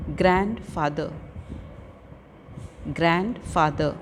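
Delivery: slow, measured "ग्रैंडफादर"; careful pronunciation. Shown as a demonstration. Teacher giving pupils words to practise, careful pronunciation. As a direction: say "ग्रैंडफादर" slowly as a model to copy. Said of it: "listen to the pronunciation of the".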